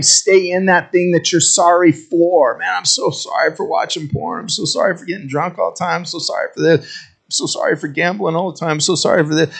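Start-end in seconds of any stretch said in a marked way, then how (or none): 2.6-9.5 mock confession. Mocking repeat sinners' apologies.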